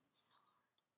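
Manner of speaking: slow, sighing whispered whine; mock a self-pitying complainer. Mocking women fishing for sympathy, in a whining whisper.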